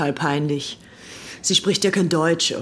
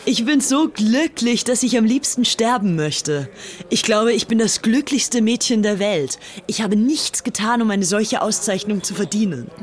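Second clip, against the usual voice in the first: overjoyed; 5 semitones higher than usual. Acted. Unity schwärmt von Hitler.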